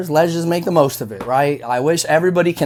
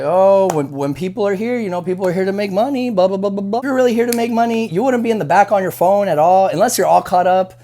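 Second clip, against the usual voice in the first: imitating a preachy coworker's rant, louder; mock rant; 2 semitones higher, 3 dB louder than usual. Server ranting at the end of the shift, mock lecture. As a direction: lecture like a smug server, building to a louder finish. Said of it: "they go on this little rant".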